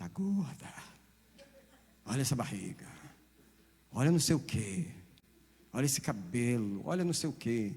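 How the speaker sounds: demonic voice. Preaching about mirrors, voicing the devil speaking through a mirror. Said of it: "o diabo vai usar o espelho para falar para você".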